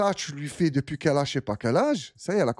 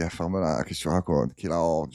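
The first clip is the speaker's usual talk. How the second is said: lower, dismissive comeback to the widow; mock scornful retort; 7 semitones lower than usual. Mocking the widow's excuse, lower and scornful. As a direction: brush her off, sneering lower. Streamer snaps back at the widow.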